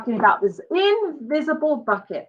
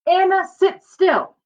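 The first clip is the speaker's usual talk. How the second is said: put-on higher, louder snap at the child; a hurried mother telling her off; sharp mom; 7 semitones higher, 5 dB louder than usual. Hurried mom scolds Anna.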